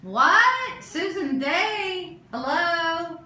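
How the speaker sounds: sudden high surprised calls; startled, pitch jumping up. Real, not acted. Surprised at a caller appearing.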